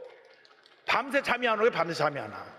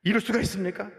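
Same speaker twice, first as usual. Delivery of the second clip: mild mock complaint to God; retold grumbling prayer. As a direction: whine a little at God, reenacting it. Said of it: "하나님께 막 투정을 했죠".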